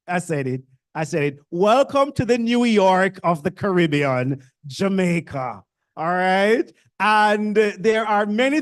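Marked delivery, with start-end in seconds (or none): 1.5-5.6 proud louder declaration. Shown as a demonstration. Speaker to new students, welcoming them loudly and proudly. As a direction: announce it boldly and louder.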